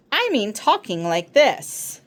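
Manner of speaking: speaking while breathing in; creepy inhaling voice; inhaled speech. Retold or imitated. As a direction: talk on the in-breath, watery and raspy. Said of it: "did that creepy thing ... breathe in while they're talking".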